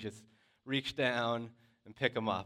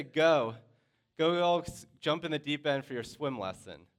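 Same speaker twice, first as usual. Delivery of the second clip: higher, louder call at the start, easing off; 4 semitones higher, 5 dB louder than usual. Retold or imitated. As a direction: egg the kids on, imitating a called order. Counselors calling kids into pool.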